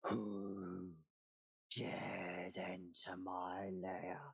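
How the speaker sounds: slow menacing dragon voice from above; booming voice from sky. Acted. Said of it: "you hear a voice from above you".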